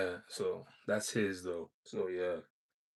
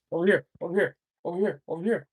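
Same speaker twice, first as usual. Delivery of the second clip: raised voice calling the cats over; calling from far away; 6 semitones higher, 6 dB louder, much faster than usual. Real, not acted. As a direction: call out across the yard.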